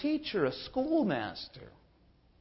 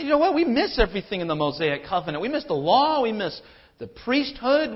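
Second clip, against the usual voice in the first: higher, louder nostalgic grumbling; complaining believers; 4 semitones higher, 3 dB louder than usual. Retold or imitated. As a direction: whine for the old ways. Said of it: "They say".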